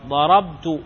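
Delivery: ضربت with a still b and a clear -tu ending; voweled final ta. Shown as a demonstration. Grammar teacher showing the subject ta, ضربت ending in -tu. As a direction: say ضربت as darabtu, ending in a short u. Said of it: "كل متحرك".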